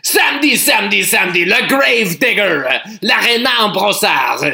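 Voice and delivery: intense French hype announcer; monster truck ad. Pretend. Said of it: "A little more intense".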